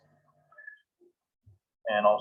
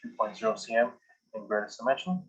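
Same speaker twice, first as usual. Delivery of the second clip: dictating. Shown as a demonstration. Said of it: "now I'm going to just start dictating".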